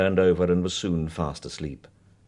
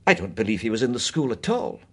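decisive; 4 semitones higher, faster than usual. Acted. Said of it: "said Missus Bingham decisively".

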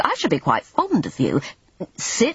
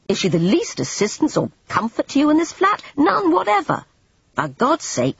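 louder, impatient Everard; exasperated scolding; 4 semitones higher, 3 dB louder than usual. Acted. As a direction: hammer the point home, fed up. Scolding Jane about drunk maid.

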